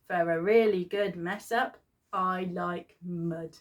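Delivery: put-on poem read in a broad northern English accent. Reading a kids' poem to camera in a northern accent. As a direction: give it a northern English lilt, savouring mud. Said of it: "you have to sing it with a northern accent".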